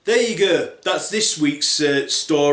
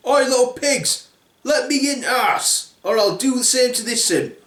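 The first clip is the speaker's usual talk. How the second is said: a raised, jeering wolf voice; lightly voiced bully wolf; 9 semitones higher than usual. Wolf threatening the little pigs at their door, mock menace. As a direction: taunt the pigs like a cocky thug.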